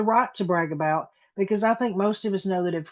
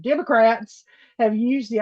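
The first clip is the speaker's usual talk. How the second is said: Democrats said loud; 3 semitones higher, 4 dB louder than usual. Shown as a demonstration. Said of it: "I'm gonna say it loud every time he does this".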